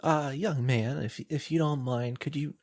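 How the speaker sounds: hesitant, slightly frail-voiced older woman; feeble villager. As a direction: ask for help haltingly, lightly feeble. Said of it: "feebly, shakily".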